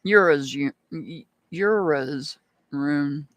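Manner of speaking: "Ura's" broken off and repeated as an unsure guess; struggling to pronounce. Real, not acted. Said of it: "have to learn how to pronounce".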